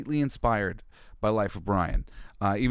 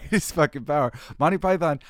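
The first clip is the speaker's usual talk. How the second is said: normal talking voice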